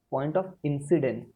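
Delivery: slow it right down so students can write; very slow dictation. Shown as a demonstration. Teacher repeats the phrase for students to copy, very slowly. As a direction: point of incidence, drawn out word by word.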